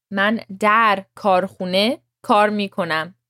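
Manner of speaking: در picked out clearly within the sentence; careful در. Shown as a demonstration. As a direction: set در slightly apart, pronounced with care. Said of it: "And watch the در".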